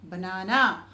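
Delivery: usual speaking voice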